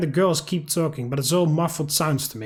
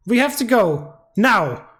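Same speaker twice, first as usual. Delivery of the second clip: higher, louder alarmed urging; urgent panic; 4 semitones higher, 3 dB louder, slower than usual. Acted. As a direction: hurry them out in alarm. Yuri panics after phone call.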